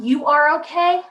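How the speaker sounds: slow, insistent "You are okay"; dismissive statement. Shown as a demonstration. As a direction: tell the child "You are okay", as a verdict. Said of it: "how about this?".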